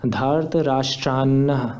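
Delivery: धार्त राष्ट्रान्न read slowly with a doubled न; slow धार्त राष्ट्रान्न, ending on a clear double na; careful reading. Shown as a demonstration. Teacher reads the Gita word slowly for students. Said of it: "इस शब्द को ऐसे पढ़ेंगे".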